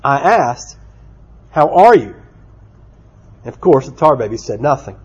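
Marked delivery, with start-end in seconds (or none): 0.0-2.1 a touch of mock frustration, firm ARE; mild frustration. Rabbit repeats himself to a silent tar baby, mildly frustrated. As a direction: repeat the greeting with mild storybook impatience. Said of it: "began to get frustrated".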